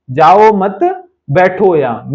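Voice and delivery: slow "जाओ मत" held open, break, then "बैठो यहां"; group "मत" with "जाओ", pause before "बैठो"; pause after मत. Shown as a demonstration. Teacher repeating what the speaker meant, pause after "मत". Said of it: "उसने कहा".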